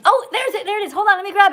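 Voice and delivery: real little thrill; excited discovery. Real, not acted. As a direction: pounce on the find. Spots the super chat.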